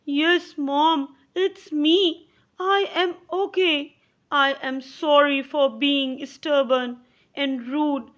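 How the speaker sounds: a hint of a child owning up; sorry boy. John answering his mother through the door, lightly voiced sorry boy.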